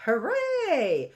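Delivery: cheerful cheer of hooray; bright interjection demo of joy; happy hooray. Shown as a demonstration. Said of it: "So when you're happy".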